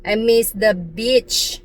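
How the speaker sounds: hammed-up American accent, slowing on "beach"; self-mocking American accent; attempted American accent. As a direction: put on careful American English. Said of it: "like, American pronunciation, slang".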